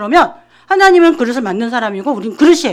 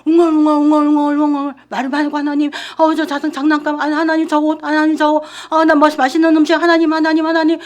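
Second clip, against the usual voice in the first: mock babbling prayer; 2 semitones higher than usual. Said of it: "말을 막 많이 하는 것 같아요".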